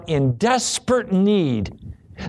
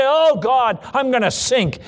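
raised, pleading cry; crying to God; 5 semitones higher than usual. Acted. Believer crying to God as they go under, urgent plea. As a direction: plead for rescue at a higher pitch. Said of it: "when you begin to cry to Him".

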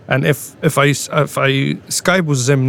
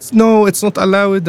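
higher-pitched mock scolding; angry retold guard; 5 semitones higher than usual. Guard refusing the tomato planting, retold angrily. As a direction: imitate an angry guard forbidding it. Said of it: "she became very angry".

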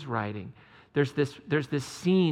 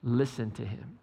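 slow, lower, softer divine voice; voice of God; 4 semitones lower, 3 dB quieter, slower than usual. Retold or imitated. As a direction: speak slowly and solemnly, as a voice from the cloud. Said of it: "a voice that said".

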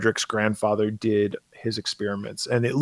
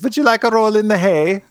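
flirty Inga voice; 9 semitones higher than usual. Retold or imitated. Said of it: "And she goes".

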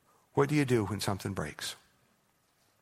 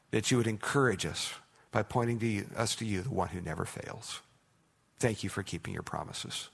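pastoral prayer. Acted. Pastor praying over his congregation, earnest and steady. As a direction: lead the room in prayer, steady and sincere.

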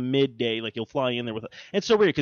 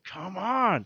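drawn-out, raised plea; fed-up comic groan of words; mock exasperation; 6 semitones higher than usual. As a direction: whine it at the universe. Exasperated outburst at a bad year.

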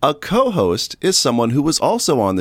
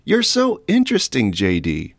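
sarcastic. Acted. Mock admiration.

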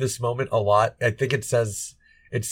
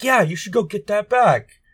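egging him on; 10 semitones higher, 5 dB louder than usual. Retold or imitated. Egging on voice in retelling.

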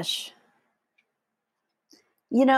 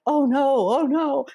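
high, loud flustered protest; flustered neighbor; 9 semitones higher, 4 dB louder than usual. Retold or imitated. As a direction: act out his embarrassed "oh no". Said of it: "and he was just".

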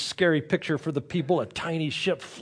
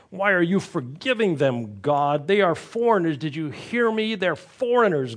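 higher and louder, petulant complaint at God; petty indignant whine; 4 semitones higher, 4 dB louder than usual. Retold or imitated. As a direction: whine at God like a stomping child. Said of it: "the storyteller puts words into Jonah's mouth".

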